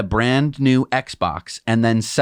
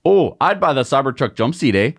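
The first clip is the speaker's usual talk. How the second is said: a light put-on Canadian accent leaning on the eh; mock Canadian accent. Co-host answers the host's question in a mock Canadian accent. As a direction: joke along in a Canadian accent. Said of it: "not all Canadians talk like this".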